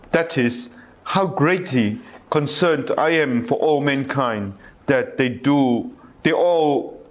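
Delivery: slow, earnest reading of a prayer; devotional reading. Acted. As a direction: read the saint's plea with feeling. Reads Faustina's prayer aloud.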